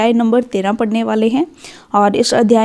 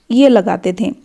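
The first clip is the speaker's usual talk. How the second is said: whisper; 2 semitones lower than usual. Shown as a demonstration. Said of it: "whispered aside while writing the vowel sign".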